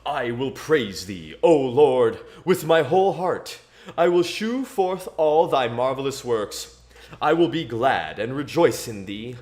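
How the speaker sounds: solemn, measured King James reading; scripture reading. Acted. Streamer reads Psalm eight to chat between races, solemn scripture voice. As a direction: read it like a preacher at the pulpit.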